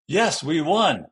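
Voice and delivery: slow, loud, over-careful student cheer; deliberate, not smooth. Acted. Child carefully practicing a gesture for class, deliberate. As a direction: stretch each word out, thinking it through. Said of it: "the child was seriously thinking".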